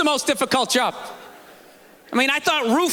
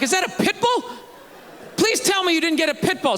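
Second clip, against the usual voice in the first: alarmed; 4 semitones higher than usual. Retold or imitated. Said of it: "I'm like".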